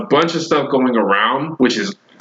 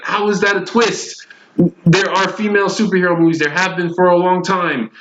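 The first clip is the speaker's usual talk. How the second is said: higher-pitched, exasperated objection; indignant fan protest, pitch raised; mildly ticked off; 4 semitones higher than usual. Real, not acted. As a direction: argue back, a bit riled. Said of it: "I'm starting to get ticked".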